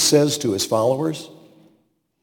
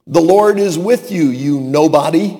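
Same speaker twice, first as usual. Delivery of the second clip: mock insult; 3 semitones higher, 5 dB louder than usual. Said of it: "God could have said to him".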